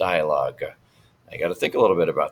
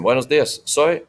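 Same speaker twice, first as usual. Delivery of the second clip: voicing the teacher; 8 semitones higher, 4 dB louder than usual. Shown as a demonstration. Teacher voicing Señor Martinez.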